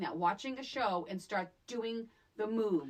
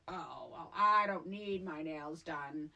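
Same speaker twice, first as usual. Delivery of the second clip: prim mock Crystal; 5 semitones lower, 3 dB quieter, slower than usual. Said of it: "And then it was like".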